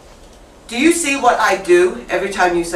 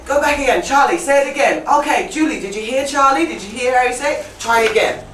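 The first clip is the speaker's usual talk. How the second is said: encouraging teacher; 5 semitones higher, faster than usual. Acted. Acts out a teacher prompting students.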